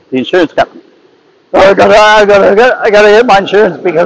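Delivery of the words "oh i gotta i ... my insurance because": high, fast, stuck on repeated words; imitating David's halting speech. Retelling neighbour's call to insurer, imitating his halting speech. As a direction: jam up on "I gotta" and rush, voice pitched well up. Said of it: "How do you talk like that?".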